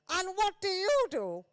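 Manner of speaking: high-pitched imitation of the Queen's posh English; Queen's posh accent. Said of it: "I started talking like that as well".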